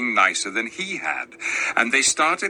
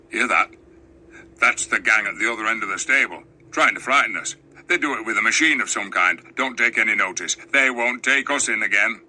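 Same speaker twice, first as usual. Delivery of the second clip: suspicious dwarfs; 2 semitones lower, faster than usual. Acted. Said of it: "the dwarfs said to one another".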